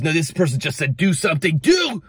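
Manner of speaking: hammed-up scared fanatic, fast; mock panic. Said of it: "they'll get fanatical like the Pharisees".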